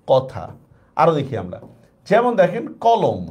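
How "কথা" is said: কথা said "kaw-tha" with an open first vowel; open অ retained. Shown as a demonstration. Teacher answering how the word is pronounced, কথা with open aw. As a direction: keep the aw in কথা wide, unchanged. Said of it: "বিবৃতই রয়ে যাবে".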